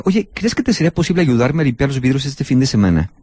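polite request. Retold or imitated. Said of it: "Lo haces como petición".

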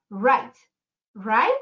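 "write" said with a plain long i, like rait; correct write. Shown as a demonstration. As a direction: model "write" cleanly, rait. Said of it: "Decimos write".

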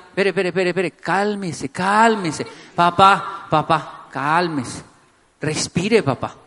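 earnest, softening coaxing, pitch sinking; calming plea. Shown as a demonstration. Child calming an angry dad down, sincere coaxing. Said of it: "si usted no me lo dice con ironía, si no se burla de mí".

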